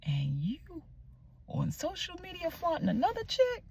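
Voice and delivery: mock outrage, climbing high on the later words; indignant retelling of an angry inner rant; retold indignation. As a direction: act out being furious at him, rising in pitch. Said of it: "I got furious because I'm like".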